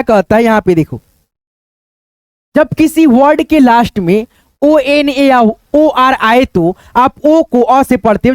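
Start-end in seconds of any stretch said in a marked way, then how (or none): 2.5-8.3 slow rule dictation. Shown as a demonstration. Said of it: "teacher states rule slowly".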